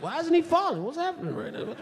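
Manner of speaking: high-pitched mock bewilderment; baffled. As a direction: puzzle it out in a high voice. Acts own bafflement after punch.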